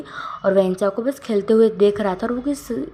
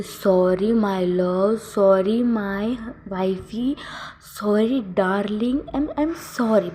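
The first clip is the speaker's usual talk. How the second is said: tender apology; much slower than usual. Acted. Wang ji hugging Wing, apologizing slowly and tenderly. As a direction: draw each sorry out lovingly.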